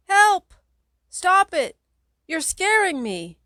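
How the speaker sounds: put-on very high, loud child's scream that slows at the end. Little sister Kate screaming at the pranking teenagers, very high and loud. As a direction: scream for help, terrified. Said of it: "Kate screams over and over".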